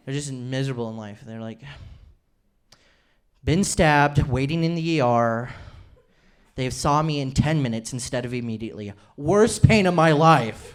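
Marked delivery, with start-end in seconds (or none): 3.4-10.7 petty complaining customer, dragged out at the end; mock whiny reviewer. Mocking a one-star hospital review.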